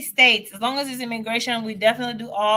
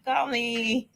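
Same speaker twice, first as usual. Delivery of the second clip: playful plug; 4 dB quieter than usual. Real, not acted. Playful plug for her consultations.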